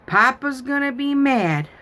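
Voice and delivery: put-on high childlike worried voice; worried little girl. Granddaughter warning grandma, high and worried. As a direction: sound like a fretting four-year-old.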